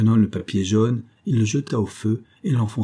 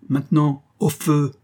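raised, commanding cry; higher-pitched command, mildly shouted; called-out order; 6 semitones higher, 3 dB louder than usual. A narrator's reading. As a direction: order it firmly, pitch lifted. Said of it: "cria Smith".

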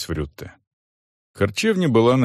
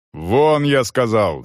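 a mild acted yell, a touch louder; shouted order; 4 semitones higher, 3 dB louder, slower than usual. Soldier driving laborers out, a mild shout. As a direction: bark him out of the room, held back. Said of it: "заорал Волков".

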